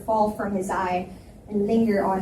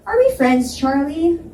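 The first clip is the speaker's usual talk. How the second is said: annoyed glare; 6 semitones higher, 5 dB louder than usual. Acted. I glared at him.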